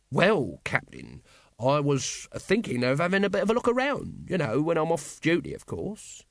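high, pious and innocent; virtuous. Acted. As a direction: act the honest man. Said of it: "he added virtuously".

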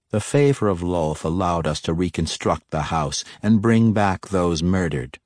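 flat near-growl. Acted. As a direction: keep it level and menacing. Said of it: "her voice flat and even and very near to sounding like a growl".

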